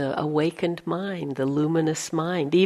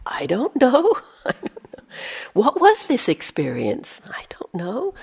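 whisper; 5 semitones higher than usual. Retold or imitated. Whispered doubting inner voice.

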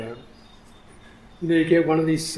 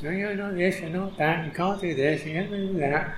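nagging critical voice; 4 semitones higher, 5 dB quieter than usual. Retold or imitated. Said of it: "Nagging critical voice".

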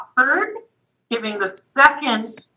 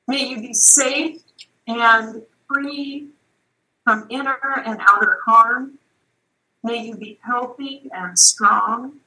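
slow, measured blessing with long pauses; unhurried prayerful recitation; metta prayer. Real, not acted. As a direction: recite it gently, phrase by phrase.

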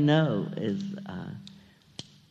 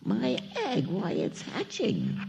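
mild acted shout, pitched up; mock shout; 7 semitones higher, 3 dB quieter, slower than usual. A narrator's reading. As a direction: exclaim it in read-aloud wonder. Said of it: "shouted Horton".

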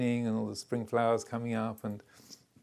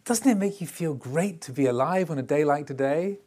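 enthusiastic; 4 semitones higher, 6 dB louder than usual. Retold or imitated. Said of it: "turned to Samuel Beckett and said".

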